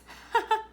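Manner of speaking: a bright, high little giggle. A narrator's reading. Child giggling at the coin flip trick, high giggle. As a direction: laugh at the heads-I-win trick.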